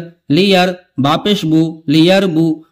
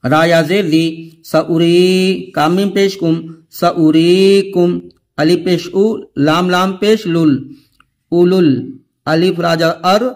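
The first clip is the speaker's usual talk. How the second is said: letter-by-letter recitation. Shown as a demonstration. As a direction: sound out every letter like a teacher drilling a class. Continues the spelling drill. (धीमी, सधी हुई तिलावत की हिज्जे वाली आवाज़)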